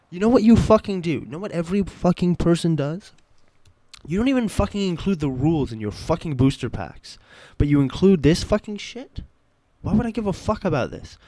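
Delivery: loud, high-pitched angry rant; real pissed-off. Real, not acted. New fan berating the makers over missing rules, loud anger. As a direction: hammer out each accusation at full voice. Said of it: "I think I'm actually pissed".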